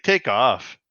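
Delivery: short dismissive Canadian take off; light Canadian accent. Retold or imitated. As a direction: brush him off, Canadian style. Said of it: "my Canadian voice guy".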